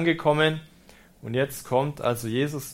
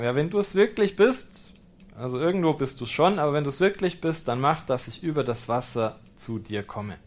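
bold request. Retold or imitated. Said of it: "eine ganz schön kühne Idee, zu sagen".

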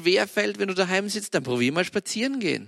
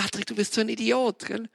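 self-scolding; 6 semitones higher than usual. Retold or imitated. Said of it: "Da denk ich mir".

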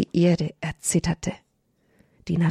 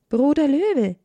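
raised, louder firm address to the lion; 8 semitones higher, 3 dB louder than usual. A narrator's reading. Little hare addresses the lion with a firm voice. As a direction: call the lion firmly, standing your ground. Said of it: "mit fester Stimme".

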